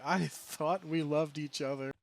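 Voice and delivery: mock-heartbroken, drawn-out words; imitated crying. Daughter crying at the disobedient Pokemon, imitated tearful plea. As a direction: lightly act out a child's tearful betrayal. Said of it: "she's, like, crying".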